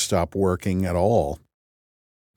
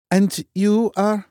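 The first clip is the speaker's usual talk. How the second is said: cool question; 12 semitones higher, 3 dB louder, slower than usual. A narrator's reading. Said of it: "Loken questioning coolly".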